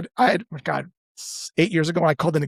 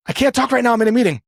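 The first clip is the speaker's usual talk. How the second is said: brush-off; 7 semitones higher, 3 dB louder, faster than usual. Retold or imitated. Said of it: "prospect brushing off a call".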